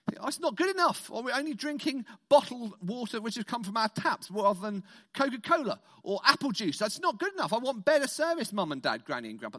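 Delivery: a hint of a spoilt kid complaining in the car; child whining at parents on a long drive.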